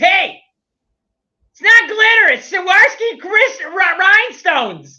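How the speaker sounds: put-on in-your-face Cajun accent, loud, high, with flair. Speaker retelling a woman getting in the speaker's face, imitating Angel's Cajun accent. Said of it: "putting my own flair to her Cajun accent".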